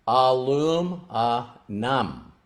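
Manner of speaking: "Aluminum" slow, low and soft, each syllable apart; moved, careful "Aluminum". Retold or imitated. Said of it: "say each syllable slowly".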